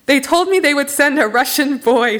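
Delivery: a touch loud and pointed; said loudly. Acted. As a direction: make sure the whole room hears it. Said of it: "she said loudly".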